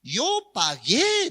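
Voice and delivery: high-pitched protest to an officer; lightly voiced drunk insisting; drunk young man. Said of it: "el joven borracho también dice".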